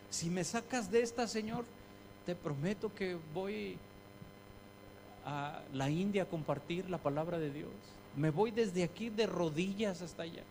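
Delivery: mock anguished vow; desperate prayer. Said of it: "cómo le decimos al Señor".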